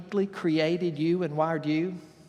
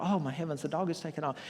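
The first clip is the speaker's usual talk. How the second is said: farmer's stunned thought; 3 semitones lower, 7 dB quieter, faster than usual. Retold or imitated. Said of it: "But he thought".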